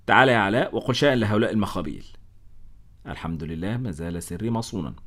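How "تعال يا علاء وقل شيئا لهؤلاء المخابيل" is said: a touch louder, eager call to Alaa; mildly eager plea for help; eager cry. Acted. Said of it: "صحت في لهفة". (نداء متلهف خفيف)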